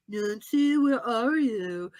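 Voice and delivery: slow, drawn-out calling; imitating Jonathan. Character searching the woods for someone, slow calling out. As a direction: call out searchingly, stretching the words. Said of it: "Jonathan all of a sudden is like".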